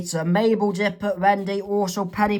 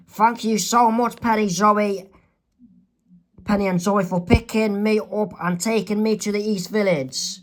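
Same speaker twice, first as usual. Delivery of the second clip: put-on higher, grateful teen girl; Wendy's voice; 3 semitones higher than usual. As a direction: gush thanks to the drivers. Wendy thanks the girls.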